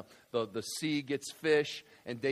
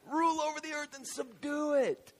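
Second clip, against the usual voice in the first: proud proclamation; 11 semitones higher than usual. Acted. Proud declaration of command.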